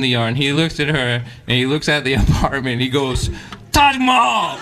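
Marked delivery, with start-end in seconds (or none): 3.7-4.6 high, louder sarcastic cheer; mock grand greeting. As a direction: hail the dump like a palace. Landlord greets wife mockingly.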